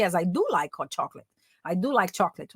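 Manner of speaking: "do" pressed for emphasis in "I do like"; emphatic do. Shown as a demonstration. Teacher showing emphatic do with chocolate. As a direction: lean on "do" to insist. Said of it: "só que aí eu tô enfatizando".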